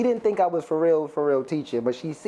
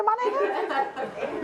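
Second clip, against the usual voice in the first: tag; 3 dB quieter, much slower than usual. Retold or imitated. Laughing punch of Q-tip joke.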